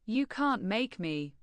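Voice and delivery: robot voice. Pretend. Text-to-speech robot replying.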